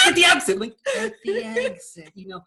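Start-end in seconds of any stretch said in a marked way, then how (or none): 0.1-0.6 At the exit called out higher and louder; sharp loud At the exit. Retold or imitated. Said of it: "I'm like". 1.0-2.1 At the exit drawn out slow and high; slow, soft, high At the exit; a little soft. Retold or imitated. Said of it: "a little soft".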